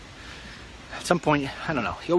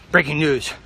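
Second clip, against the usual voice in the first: news anchor voice. Retold or imitated. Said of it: "imitating news anchor again".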